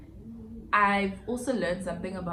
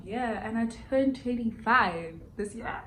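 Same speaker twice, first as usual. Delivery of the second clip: mock cry; 4 semitones higher than usual. Real, not acted. Realising her age.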